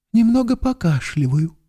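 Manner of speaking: high, sugary reply to the double; even sweeter. A narrator's reading. To his double, an even sweeter answer. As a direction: lay the sweetness on even thicker. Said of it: "отвечал ещё слаще".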